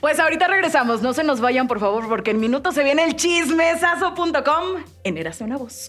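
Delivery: upbeat radio host sign-off; radio announcer voice. Shown as a demonstration. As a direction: sell the break like a DJ. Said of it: "habla como locutora".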